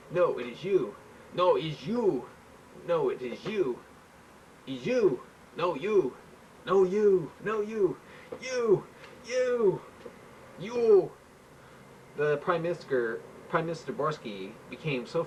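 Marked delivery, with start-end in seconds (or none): 0.1-11.1 from plain to a high loud shouted you; childish back-and-forth getting higher and louder; escalating quarrel. Acted. Two leaders bickering, rising to shrill shouting.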